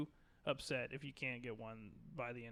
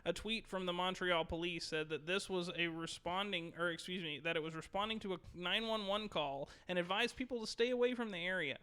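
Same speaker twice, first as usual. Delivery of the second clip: news anchor. Shown as a demonstration. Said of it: "let me read this like a news anchor".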